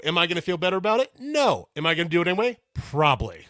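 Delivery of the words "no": a sharp, much higher, louder no; blunt punchy no; emphatic no. Real, not acted. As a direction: slam the answer down. Answers own rhetorical question.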